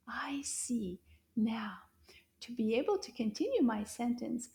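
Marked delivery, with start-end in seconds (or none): 0.1-1.0 whispered aside. Acted. Teacher whispers meaning aside.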